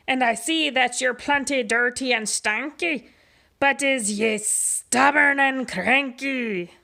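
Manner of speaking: pirate captain. Acted. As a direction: preach the pirate code like a swaggering captain. Pete's pirate voice.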